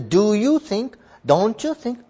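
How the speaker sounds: a touch of "don't you think"; mild seeking agreement. Shown as a demonstration. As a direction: gently nudge the listener to agree. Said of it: "こんな感じって受け取ってください".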